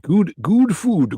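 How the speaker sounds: slow drawn-out effect voice. Pretend. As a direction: stretch "Good, good food" slowly. Voice effect play.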